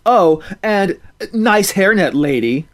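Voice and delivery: slow, loud, high jeer; snide parting yell; parting insult shout. Acted. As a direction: fling one last insult. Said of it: "shout one last insult".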